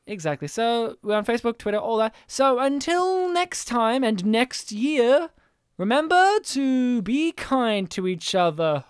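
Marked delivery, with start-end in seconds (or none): 2.3-8.9 slow sign-off. Real, not acted.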